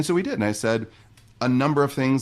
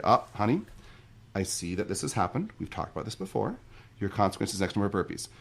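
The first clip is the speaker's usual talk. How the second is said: softer, steady and reassuring parent; calm and tender; 5 dB quieter than usual. Shown as a demonstration. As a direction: stay gentle but hold the line. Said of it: "Or I can hold on to myself".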